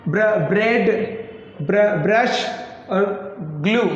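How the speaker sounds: letters or blend first, then the word: फ्र-, फ्रॉग; teacher's word drill, leading into प्लांट and ग्लास with their blends; blends within words. Shown as a demonstration. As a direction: sound out the opening cluster, then say ब्रेड, ब्रश. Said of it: "दो व्यंजन मिल रहे हैं और उच्चारण निकाल रहे हैं".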